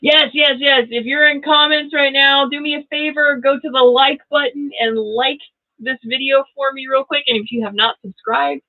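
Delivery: rally the viewers; eager pitch. Real, not acted. Creator urging viewers to like, high eager appeal. Begging for likes.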